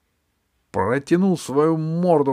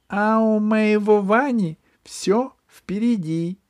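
high, loud haughty retort; haughty princess; 10 semitones higher, 5 dB louder than usual. Acted. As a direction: toss it back over the shoulder.

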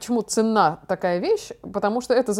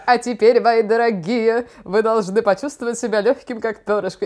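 mock old lady; 4 dB louder than usual. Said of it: "бабкой, которая говорила".

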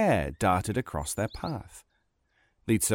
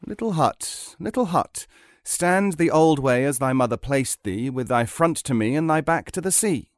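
Ivan summoning; 3 semitones higher than usual. Acted. Tsarevich ordering the magic hut to turn, calling out. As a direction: call it, then command in chant-like phrases.

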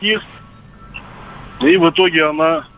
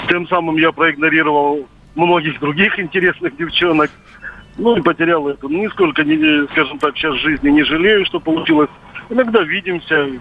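over a landline phone. Real, not acted. Caller on radio phone line.

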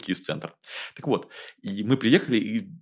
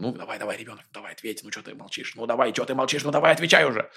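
impatient nagging mother; faster than usual. Retold or imitated. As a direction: nag the child, growing impatient. Mother pushes silent child.

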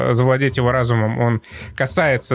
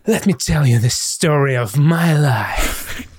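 трейлерный голос; slower than usual. Retold or imitated. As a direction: do the grand trailer narrator, slowly. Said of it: "сделал он это максимально трейлерным голосом". (медленный пафосный голос из трейлера)

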